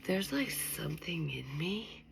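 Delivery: hushed confession; whisper. Real, not acted. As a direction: lean in and whisper it.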